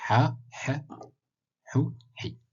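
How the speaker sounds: Ha, H, Hu, Hi said one by one, each cleanly apart; short vowel drill. Shown as a demonstration. Reminding students of the short vowels. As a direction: run the vowel drill sound by sound. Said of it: "rappel pour les voyelles brèves".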